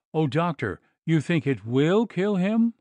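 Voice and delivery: high, rising anxious plea; cling to him and beg to know; frightened plea. Acted. Wife begging the doctor, high anxious plea.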